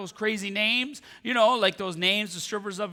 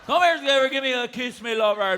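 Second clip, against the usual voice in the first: coaxing dog lover; 3 semitones higher than usual. Acted. Newfoundland local calls Skipper for a kiss, coaxing. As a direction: call the dog over in a Newfoundland accent. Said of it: "I just goes up to Skipper's".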